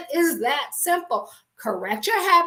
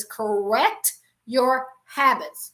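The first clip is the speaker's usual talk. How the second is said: read slowly; much slower than usual. Shown as a demonstration.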